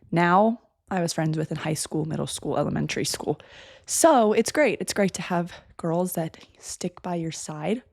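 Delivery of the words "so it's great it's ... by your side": blocked nose, stuffy voice; congested voice. Real, not acted. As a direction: talk through a stuffed-up nose. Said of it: "I'm sounding congested".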